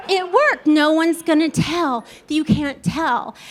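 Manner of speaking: pleased with your own cover-up; pleased self-assurance. Retold or imitated. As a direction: convince yourself the fix worked. Acted relief at the hidden fix.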